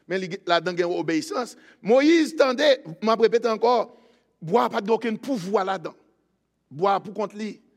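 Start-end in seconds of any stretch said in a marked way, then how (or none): 1.8-7.6 raised, forceful sermon voice; emphatic preaching. Acted. Preacher explaining Moses' obedience, emphatic preaching. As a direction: press the point on the congregation.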